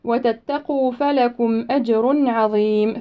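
أجر with the ج bounced and a heavy r, slowly; slow recitation with qalqala on أجر; أجر with qalqala and tafkhim; bounced jim in أجر. Shown as a demonstration. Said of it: "نقلقل الجيم".

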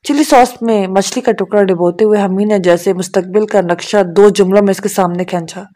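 plain reading voice

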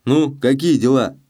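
put-on a thief enjoying the boy's fright; stern mocking demand. A narrator's reading. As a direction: toy with his fear, harshly. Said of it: "сурово спросил Челкаш".

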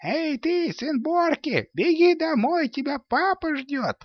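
high mocking shout of robbers; jeering robbers. A narrator's reading. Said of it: "кричали, глумились над ним".

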